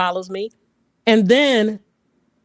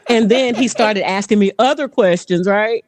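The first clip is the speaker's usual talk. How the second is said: ordinary talk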